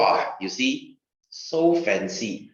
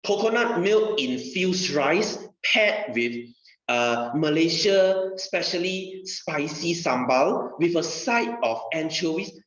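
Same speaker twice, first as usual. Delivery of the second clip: slow, lightly posh menu read; a touch of five-star waiter, drawn out; fancy waiter; 4 semitones higher, slower than usual. Retold or imitated. Teacher mocking a five-star restaurant's slow, fancy menu talk. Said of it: "they will say".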